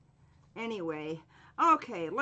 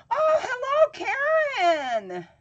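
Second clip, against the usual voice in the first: squealed hello, much higher and louder; thrilled to see her back; delighted greeting; 9 dB louder, slower than usual. Real, not acted. Livestream host squealing hello to returning viewer Karen, delighted.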